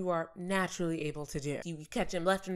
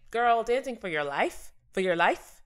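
incredulous; 4 semitones higher, 3 dB louder than usual. Retold or imitated. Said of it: "be like".

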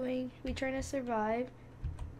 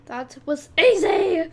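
loud, slow, higher victory cry; gloating winner's laugh and shout; triumphant laugh; 6 semitones higher, 14 dB louder than usual. Real, not acted. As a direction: crow over the easy win. Triumphant after winning round.

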